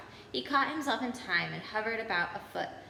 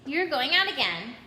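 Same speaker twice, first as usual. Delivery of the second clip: put-on louder accusing boy; 4 semitones higher, 5 dB louder than usual. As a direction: catch them in the act. Neville accuses them.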